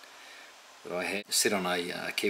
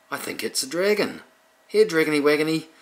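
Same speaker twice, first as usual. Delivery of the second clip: much higher, louder cooing witch voice; goofy friendly witch; 9 semitones higher, 9 dB louder than usual. Retold or imitated. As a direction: coo at the baby dragon like a dim sweet witch. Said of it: "very goofy, friendly sort of witch".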